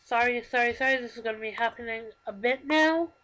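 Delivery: crying with a stuffy nose; stuffed-up nose, tearful voice; blocked nose from crying. Real, not acted. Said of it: "I'm crying and now my nose is getting plugged".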